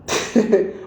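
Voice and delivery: low, soft chuckle. Real, not acted. Host amused about Ngando, chuckling. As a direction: chuckle softly to yourself.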